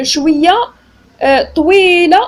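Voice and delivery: "طويلة" with its middle vowel stretched long; drawn-out. Shown as a demonstration. Teacher explaining long vowels, elongated "طويلة". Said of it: "une prononciation allongée".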